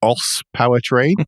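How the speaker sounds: real chuckle breaking into the words; laughing while speaking. Real, not acted. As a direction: try to get the name out through laughter. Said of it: "I still can't say it without laughing".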